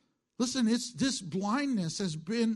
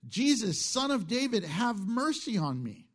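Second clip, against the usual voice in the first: raised, pleading cry to Jesus; a blind man calling for mercy, raised voice; 5 semitones higher than usual. Acted. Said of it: "he began to cry out".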